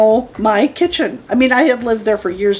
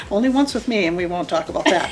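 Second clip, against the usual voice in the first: laughing. Real, not acted. Laughing at shared memory.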